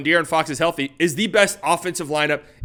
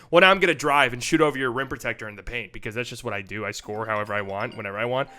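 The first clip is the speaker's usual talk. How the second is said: cocky; 5 semitones lower, 3 dB quieter than usual. Acted. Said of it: "when they hit that asshole realm".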